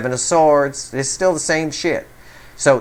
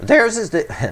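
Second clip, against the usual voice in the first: voice cracks mid-phrase, jumping up high; 5 semitones higher than usual. Doing a tarot card reading, voice cracking mid-sentence. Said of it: "there's my voice crack again".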